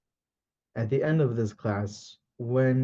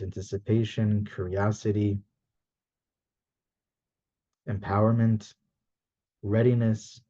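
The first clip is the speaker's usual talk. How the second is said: calm, slightly lowered guiding voice; guided visualization; 3 semitones lower than usual. Acted. Teacher guiding the class to sense their feelings, calm guided visualization. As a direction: ease them through it, unhurried, with long pauses.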